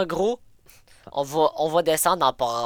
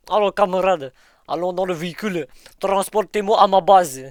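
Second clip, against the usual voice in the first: put-on commanding Russian accent; 3 semitones higher than usual. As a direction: order like a Russian general. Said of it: "prends ton accent russe".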